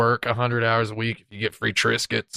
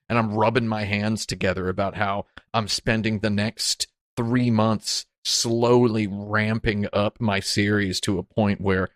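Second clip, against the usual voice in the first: hammy stage actor. Acted. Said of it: "talking in a really stupid sounding, uh, theatrical voice".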